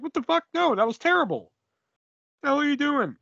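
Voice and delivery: high, exasperated disbelief; mock outrage at a bad call; incredulous rant. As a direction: pitch up and scold the screen. Outraged reaction to commentary.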